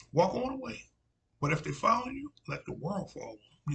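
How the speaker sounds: put-on the prophet quoted in a loud South Carolina accent; Southern Carolina accent. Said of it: "in that old South, Southern, uh, Carolina accent".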